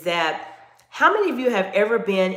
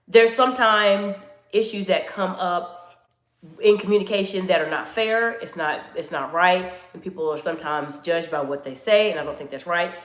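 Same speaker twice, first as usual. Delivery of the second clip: serious tone; 2 semitones lower than usual. Shown as a demonstration. Coach showing viewers a serious tone, lowered and earnest. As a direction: drop the voice slightly for a serious point. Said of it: "my tone of voice goes down just a tiny bit".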